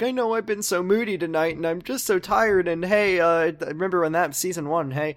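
lightly hammed-up almost crying; imitating near-tears. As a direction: act out a tired, teary apology. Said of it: "almost crying".

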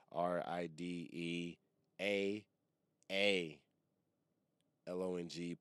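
loud, slow, letter by letter; careful spelling out. Real, not acted. Host spelling the podcast name for listeners, slow and loud. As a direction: announce each letter separately, loud and deliberate.

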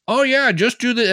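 high put-on voice mimicking the host; mocking that guy. Mocking a podcast host he groans at, high silly voice. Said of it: "And he'll say, like".

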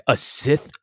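mock Mace in disbelief; incredulous. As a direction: drag out the shocked question. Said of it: "And he's like".

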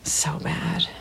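quiet whispered verdict; a soft whispered dig; whispered aside. Real, not acted. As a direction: breathe it under your breath. Aside while co-host talks.

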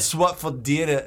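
slow mock Aussie; Australian accent. Auditioning for the Outback commercial, slow mock Australian accent. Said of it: "Can you do an Australian accent".

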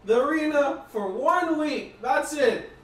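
frantic high shouts for a medic; panicked yelling. Acted. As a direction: scream for help in a panic. GM voices panicked arena NPC.

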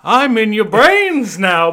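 creature voice echoing in skulls; eerie voice in the head. Acted. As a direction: speak right into their brains. Original creature line.

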